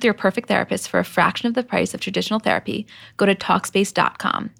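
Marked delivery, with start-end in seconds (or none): 3.2-4.5 slow and clear. Real, not acted. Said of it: "ad call to action".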